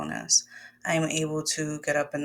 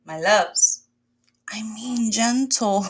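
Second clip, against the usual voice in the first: gentle whisper; 4 semitones higher, 5 dB louder, slower than usual. Shown as a demonstration. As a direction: breathe the words out gently. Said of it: "And when I say gentle".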